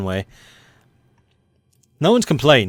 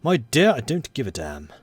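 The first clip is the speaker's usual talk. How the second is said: quoting a film line; 2 semitones higher than usual. Retold or imitated. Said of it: "That was the quote".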